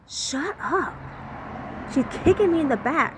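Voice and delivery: urgent shouting. Retold or imitated. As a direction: bark orders while being kicked. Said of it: "I'm like".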